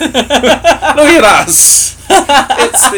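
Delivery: high, slow laughing words. Real, not acted. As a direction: giggle through it. Laughing at the mutual compliments.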